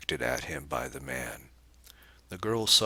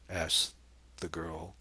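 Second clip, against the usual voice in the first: ordinary delivery, nothing marked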